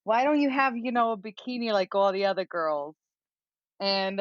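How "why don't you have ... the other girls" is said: put-on New York accent. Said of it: "That's the accent I have right now".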